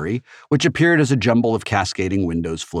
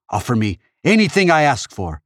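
loud, raised insistent order; forceful high demand; 7 semitones higher, 5 dB louder than usual. A narrator's reading. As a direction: press your beaten foe hard. Avenger pressing his demand on beaten foe.

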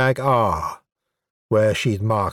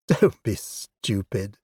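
gentle, slow, lowered rebuke; almost kindly; 2 semitones lower, 4 dB quieter, slower than usual. Acted. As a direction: scold him softly, almost with kindness. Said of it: "she said almost kindly".

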